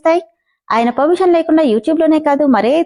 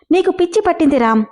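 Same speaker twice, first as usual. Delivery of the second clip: higher-pitched, mildly voiced outburst; narrated cry of protest; 6 semitones higher than usual. A narrator's reading. Manu cries out at Ram, a mildly raised outburst. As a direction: toss out a pitched-up protest, not full volume. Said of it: "Manu అరుస్తుంటే".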